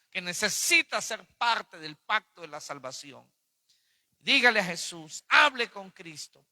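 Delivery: emphatic preaching with punched phrase openings; preaching appeal. Real, not acted. Preacher urging the congregation to accept salvation today, insistent preaching. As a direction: urge the listeners on, hitting key words hard. Urges listeners to be saved.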